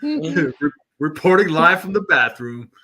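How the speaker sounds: mock live field report; news reporter voice. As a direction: announce it like a TV reporter. Joking bathroom news report.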